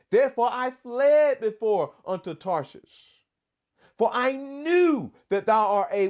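complaining Jonah. Shown as a demonstration. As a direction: read it as an upset, complaining Jonah. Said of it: "And he says".

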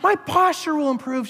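high deadpan echo; mock robotic recitation; parroting the letter. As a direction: chant it like a brainwashed believer. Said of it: "I'm like".

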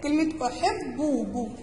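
أحبه drawn out slowly, syllable by syllable; slow example word. Shown as a demonstration. Teacher giving the first exercise word, slowly stretched. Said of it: "نشوف أول كلمة".

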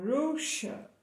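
Russia, slowly, the ss said as sh. Shown as a demonstration. Teacher repeats Russia slowly for the kids. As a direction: drag out Russia with a clear sh. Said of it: "esse S S ele tem um som de X".

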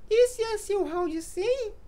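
very high, slow mocking squeak; squeaky little voice. Mocking a teammate's mistake mid-match in a squeaky voice. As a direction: drag it out slowly in a tiny high voice. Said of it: "com essa vozinha".

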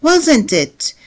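surprised echo question. Shown as a demonstration. Teacher demos an echo question reacting to the old club news, surprised. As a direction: react with mild surprise, eyebrows up in the voice. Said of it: "لأننا هنا نبدي المفاجأة".

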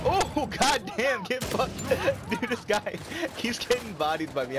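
crowing through real laughter; high exclamation breaking into laughs; gleeful laughing. Real, not acted. Gamer gloating over a player he keeps beating, gleeful laughing.

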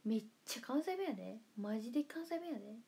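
playful Kansai-accented insistence; Kansai dialect. Shown as a demonstration. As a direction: lay on the Kansai intonation. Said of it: "方言出ないんですよ。めちゃくちゃ関西弁やで".

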